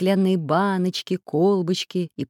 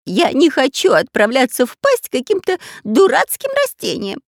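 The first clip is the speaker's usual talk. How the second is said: high, loud whiny robber voice; whining robber; 8 semitones higher, 7 dB louder than usual. Acted. Robber whining to the pirate about the island. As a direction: whine it like a sulking child. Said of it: "стал ныть Дырка".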